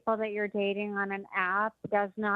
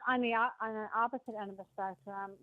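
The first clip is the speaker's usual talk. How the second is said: phone held away. Real, not acted. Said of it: "it's tough to hear you, Tony. Speak closer to the, the phone microphone".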